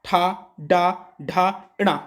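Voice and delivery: "ठा, डा, ढा, इणा" said apart with the tongue curled back; teacher repeating the "टा" series for students; retroflex demo. Shown as a demonstration. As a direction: sound out "ठा" "डा" "ढा" "इणा" in turn. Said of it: "बोल के देखो टा".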